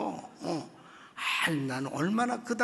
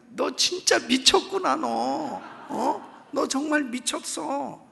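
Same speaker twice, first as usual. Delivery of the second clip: disbelieving husband; 3 semitones higher, 4 dB louder, slower than usual. Retold or imitated. Husband disbelieving wife's healing.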